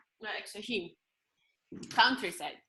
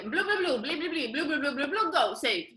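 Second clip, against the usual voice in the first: higher, hammed-up fake French babble; mock French gibberish; 5 semitones higher, 3 dB louder than usual. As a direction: imitate the chef rattling off French names. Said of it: "so they're like".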